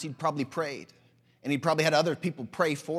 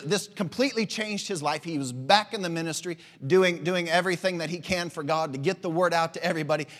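louder, driving preacher's cadence; preaching; 4 dB louder than usual. Acted. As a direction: preach it out with fire to the crowd. Preaching builds over the congregation.

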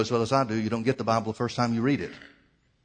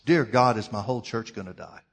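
loud opening address, then dropping off; retold plea ringing out; ringing cry to God; 4 dB louder than usual. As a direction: cry out to God and let it fall away. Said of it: "that question's ringing off the walls".

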